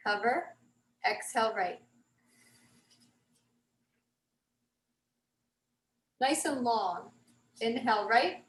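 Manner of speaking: measured breathing cues with long pauses; calmly pace a class through breaths; guided breathing. Shown as a demonstration. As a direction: lift on the inhale, settle down on the exhale. Leads a breathing exercise.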